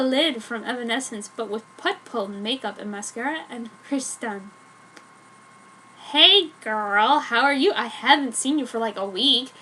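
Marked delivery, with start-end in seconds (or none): 6.1-9.5 put-on louder, bubbly hey girl; chirpy catching-up tone, hammed-up; happy greeting. Jenny greeting Joan after a week, bubbly happy voice. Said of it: "she inquired happily".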